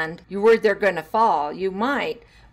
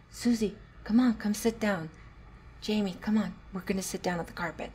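quiet coaxing; 5 dB quieter than usual. Shown as a demonstration. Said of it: "And I'd go around".

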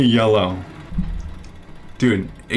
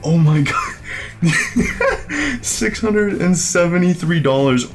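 shrieking jackpot winner; 12 semitones higher, slower than usual. Real, not acted. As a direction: scream in disbelief at the win. Second big win.

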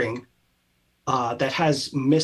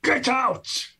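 booming voice; 12 semitones higher than usual. Acted. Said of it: "booming voice of".

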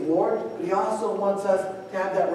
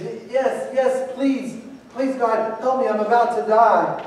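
mildly acted, higher-pitched begging; desperate pleading; 4 semitones higher than usual. Man on the cliff begging God, desperate pleading. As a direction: plead urgently, hammed-up a touch.

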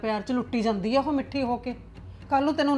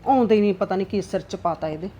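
grumbling aside to herself; 4 semitones lower than usual. Acted. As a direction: sulk and plot under her breath. Mother-in-law grumbles alone, scheming. (ਨੂੰਹਾਂ ਬਾਰੇ ਇਕੱਲੀ ਬੁੜਬੁੜਾਉਂਦੀ ਸੱਸ, ਨੀਵੀਂ ਸੜੀ ਹੋਈ ਅਵਾਜ਼)

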